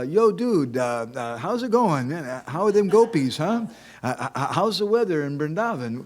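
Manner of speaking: high, loud dude-style small talk; mock casual greeting. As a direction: ham up an awkward, over-familiar hello. Hypothetical over-casual greeting to Krishna.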